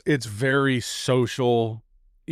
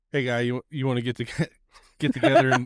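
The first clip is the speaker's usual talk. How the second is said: laughing mock invite; faster than usual. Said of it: "can't even say it with a straight face".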